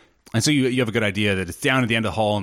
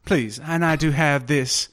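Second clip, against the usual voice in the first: sultry voice; 4 semitones higher than usual. Acted. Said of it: "that's a sultry voice she has".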